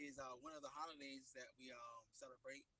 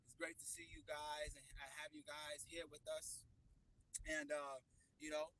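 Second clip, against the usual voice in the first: talking up; 3 semitones higher, 10 dB louder than usual. Real, not acted. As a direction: project to be heard. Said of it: "try to talk up a little bit".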